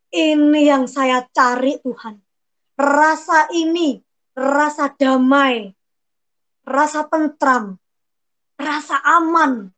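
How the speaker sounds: slow peaceful prayer. Retold or imitated. Reliving peace found in prayer.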